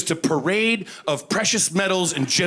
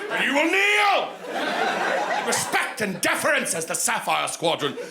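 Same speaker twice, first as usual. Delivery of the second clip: pompous airline announcer. Retold or imitated. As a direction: announce it like a royal herald. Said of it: "they're like".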